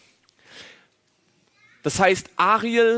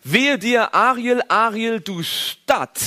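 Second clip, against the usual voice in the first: raised proclaiming cry; 5 semitones higher, slower than usual. Acted. Prophet crying out, raised.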